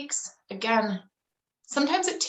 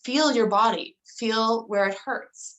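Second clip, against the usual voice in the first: gentle guiding mom. Retold or imitated. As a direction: coax the child inward, unhurried. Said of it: "So I'll say".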